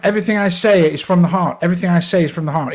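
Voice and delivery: put-on posh English accent, said sincerely; earnest, in the posh character accent. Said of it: "even if I say it in a posh voice".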